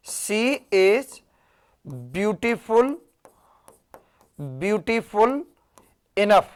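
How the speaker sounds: very slow, stretched "beautiful" before "enough"; correct version, drawn out. Shown as a demonstration. Teacher slowly modelling the correct sentence for students. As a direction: spell out the right order, stretching "beautiful". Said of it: "ये वाला सही होगा".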